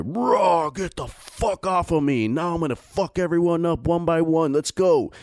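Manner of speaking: high-pitched hammed-up barbarian warrior, bellowing threats; Conan impression. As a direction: play Conan shrugging off ten attackers. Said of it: "You fucking do Conan the Barbarian".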